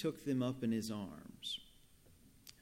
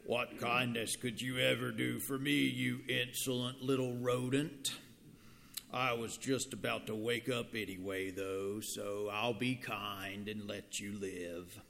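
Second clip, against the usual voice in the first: lion voice. Acted. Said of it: "let me try it again".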